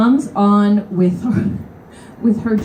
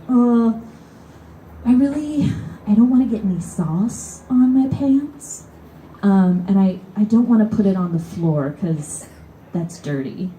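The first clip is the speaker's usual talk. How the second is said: lightly raised, whiny excuse-making; whiny guy. Retold or imitated. Guy on train whining about his food bag, mild whine. Guy refuses to give up seat.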